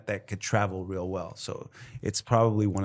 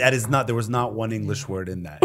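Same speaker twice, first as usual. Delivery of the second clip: laughing disbelief. Retold or imitated. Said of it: "you're like".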